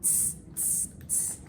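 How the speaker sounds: whispered teasing tss; monkeys tssing. A narrator's reading. Monkeys mocking the peddler from the branches. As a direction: hiss it back like cheeky monkeys. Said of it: "shook both their hands and looked back at him and said".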